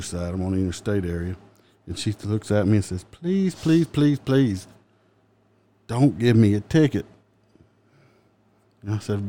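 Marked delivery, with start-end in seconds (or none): 3.1-7.1 high-pitched pleading, stretched out; retold begging. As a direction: imitate a driver begging off a ticket. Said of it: "begging me".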